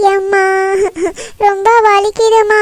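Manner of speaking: slow, drawn-out fake whimper of pain; milk the pain so mother takes her side. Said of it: "எப்படி நடிக்கிறத பாரு". (போலியாக வலிப்பது போல் மெதுவாக முனகுதல்)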